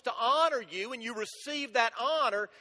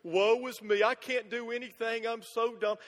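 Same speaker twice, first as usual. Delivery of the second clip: mock self-pity. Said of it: "look in the mirror and go".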